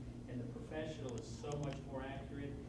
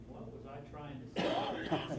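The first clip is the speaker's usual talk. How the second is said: laughing self-mockery; 6 dB louder, slower than usual. Laughing at own dictation errors.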